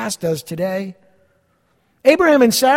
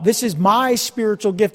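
"my" leaned on in mock self-importance; accent the word "my" like a boaster; stress on MY; 2 semitones higher than usual. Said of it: "accent on the personal pronoun".

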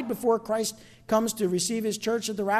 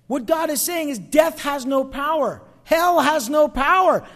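excited; 4 semitones higher, 4 dB louder than usual. Real, not acted. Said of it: "the only one that's excited tonight".

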